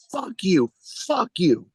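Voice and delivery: high, repeated heckler's yell; retold yelling. Heckler keeps repeating it over the jokes, retold yelling. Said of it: "he started yelling".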